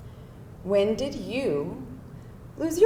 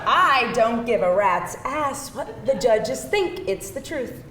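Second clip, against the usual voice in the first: laughing defiance. Acted.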